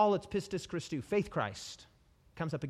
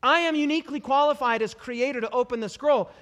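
Jesus declaring; 5 semitones higher, 8 dB louder than usual. Retold or imitated. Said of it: "Jesus would be like".

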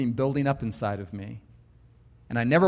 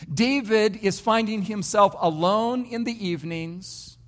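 ordinary talk

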